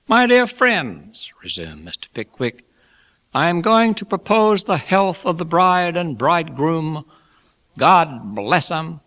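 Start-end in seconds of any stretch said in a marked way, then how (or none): 0.1-1.3 high, loud, drawn-out salutation; Pickwick resuming speech. A narrator's reading. Pickwick resumes toast to wedding guests, high slow address. 3.3-9.0 high-pitched after-dinner oratory; genial Pickwick, toasting. A narrator's reading. Pickwick toasts bride and bridegroom, high genial oratory.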